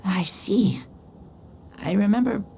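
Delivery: breathy whisper, barely voiced. A child just woken murmurs to himself, whispering.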